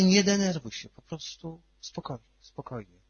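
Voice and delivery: calm her down, trailing into a hush; soothing hush. Retold or imitated. Father calming daughter.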